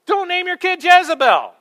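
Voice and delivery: very high, loud comic plea; emphatic warning shout. Real, not acted. Preacher warning those who will have babies, emphatic high shout. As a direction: cry it out as an urgent warning.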